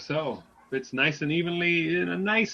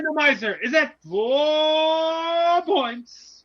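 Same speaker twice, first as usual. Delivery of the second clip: auctioneer voice; 12 semitones higher, 7 dB louder, slower than usual. Acted. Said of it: "I had to get my auctioneer voice ready".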